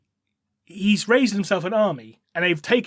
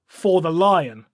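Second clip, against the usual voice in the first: slow chanted rallying cry "For the lion"; drawn-out war cry with the weight on "lion"; soldiers' slow solemn chant "For the lion"; battle cry; much slower than usual. Retold or imitated. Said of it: "the Carnathians' battle cry of".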